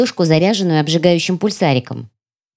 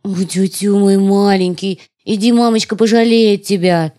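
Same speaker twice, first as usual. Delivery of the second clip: put-on cutesy baby talk. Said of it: "засюсюкала в ответ тёмная".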